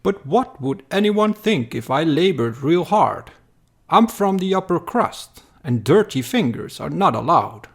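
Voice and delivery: hint of a spoiled aristocrat; haughty entitled noble. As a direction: toss it off like someone too posh to work. Entitled villager speaking.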